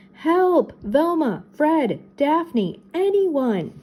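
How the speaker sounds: high cries, one name at a time; calling for help. A narrator's reading. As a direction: call out desperately for anyone. Trapped friends calling for rescue.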